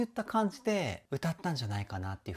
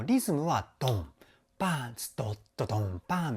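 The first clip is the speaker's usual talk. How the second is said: drum rhythm imitation. Shown as a demonstration. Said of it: "みたいな感じで".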